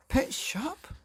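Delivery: breathless high whisper of disbelief; a father whispering in shock; stunned whisper. A narrator's reading. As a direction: barely get the words out.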